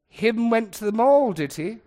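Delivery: loud, high mock question, dropping at the tag; imitating a mocking mom; mother's mockery. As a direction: tease the bad grammar as Mother would. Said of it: "relentlessly mocking bad grammar".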